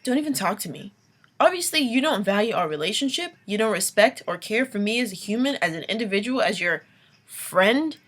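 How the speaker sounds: imagined telling-off. Pretend. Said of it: "I'm almost at the point where I'm like".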